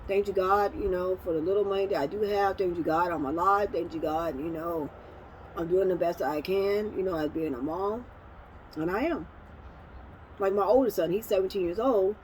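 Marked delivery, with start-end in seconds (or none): 0.1-8.0 quiet grateful prayer. Retold or imitated. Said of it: "hold my hand up and say".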